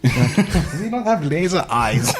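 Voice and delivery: high, slow mock German accent. Co-host being Emery, laughing German accent. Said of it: "with a German accent".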